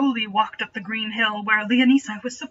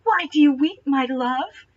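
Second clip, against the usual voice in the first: soft sweet voice; 4 semitones higher than usual. Acted. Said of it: "a soft, sweet voice".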